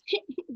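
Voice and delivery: short, high mock sob; imitated crying. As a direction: softly fake a little whimper.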